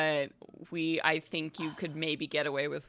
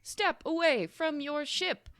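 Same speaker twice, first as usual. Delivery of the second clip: pre-recorded announcement; 9 semitones higher than usual. Acted. Airlock announcement to passengers leaving their ship, pre-recorded voice. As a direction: recite it like a recorded airlock warning. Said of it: "a pre-recorded voice".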